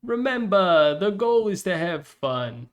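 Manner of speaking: lightly voiced slow announcer; a touch of game announcer, drawn out; mild announcer-style read; announcer line. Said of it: "where you load in and it's like".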